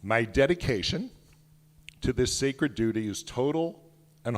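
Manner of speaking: measured, reverent reading of a creed; solemn recitation. Acted. Author reads the creed to the audience, solemn and measured. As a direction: read it like a sacred oath, steady and grave.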